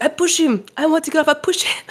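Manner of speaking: high, laughing retold confession; high giggly imitation of the woman; mock confession. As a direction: blurt it out gleefully. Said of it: "He's like".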